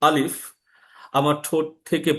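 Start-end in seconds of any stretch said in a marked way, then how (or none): 0.0-0.4 আলিফ said slowly and cleanly, air leaving the lips; Arabic alif demo. Shown as a demonstration. Teacher to students: clear demo of আলিফ. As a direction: model the letter আলিফ for learners. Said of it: "আমি যখন আলিফ উচ্চারণ করব".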